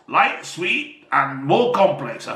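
put-on Bristol accent. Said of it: "sounds more like I'm from, uh, Bristol".

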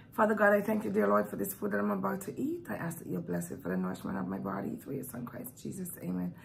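quick quiet grace before eating; rushed mumbled prayer. Real, not acted. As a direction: murmur a fast mealtime prayer. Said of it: "let me just say a quick grace first".

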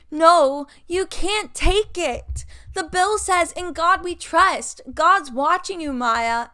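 loud, high scolding of a friend; preachy Riley. Retold or imitated. Riley scolding Maya for taking the money, loud and high mock preachy. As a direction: lecture her friend about God, hammed up. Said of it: "And Riley's like".

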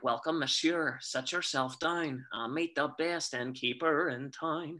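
slow, lightly performed Northern Irish innkeeper; Northern Irish Thenardier. Acted. Actor showing his Northern Irish Thenardier, welcoming guests in that accent. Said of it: "first ever Northern Irish Thenardier".

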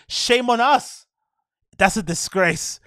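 slow, high, loud mock lawyer; imitating the lawyer. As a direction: ham up the lawyer's solemn line. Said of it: "That black guy lawyer that's got a weird accent".

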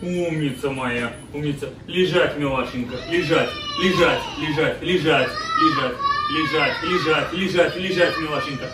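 repeated dog commands, gently coaxing; talking to a dog. Real, not acted. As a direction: coax the dog through sit and down.

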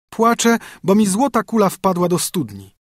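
put-on high, bright young princess. Princess tells her loss.

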